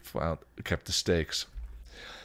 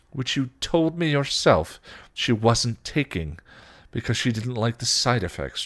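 firm, higher-pitched rebuttal; vehement; 5 semitones higher, 4 dB louder than usual. Acted. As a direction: push back hard with a raised voice. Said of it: "Giles replied vehemently".

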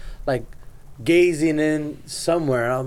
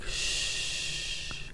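shush; 15 dB quieter than usual. Retold or imitated. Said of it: "he's like".

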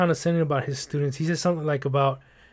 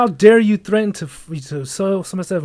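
loud, higher, outraged scolding; indignant old lady; 3 semitones higher, 6 dB louder than usual. Retold or imitated. Imitating the old tenant scolding the clerk, outraged. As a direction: bite into him like an offended grandma. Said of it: "she cut into me like".

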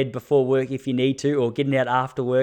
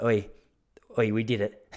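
laughing retold cheer; 3 semitones lower, 3 dB quieter than usual. Retold excited call to coach.

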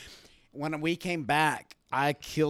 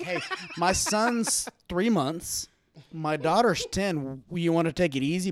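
slow, exaggerated Texan drawl; Texan accent; 3 semitones higher, 3 dB louder than usual. Texan dad answering the elevator guy, slow Texan drawl. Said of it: "Well, I'm from Texas".

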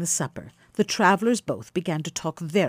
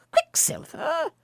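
higher, slow, incredulous cry; astonished echo; 10 semitones higher, slower than usual. A narrator's reading. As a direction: cry the name out in wonder. Philemon repeats the odd name.

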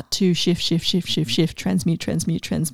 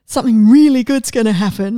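breathless anticipation; 5 dB louder than usual. Retold or imitated. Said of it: "this energy of".

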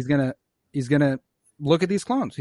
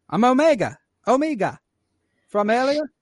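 put-on higher, bright little-girl voice; girl's voice; 7 semitones higher than usual. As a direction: lightly play the eager kid introducing herself. Voicing the girl Omega.

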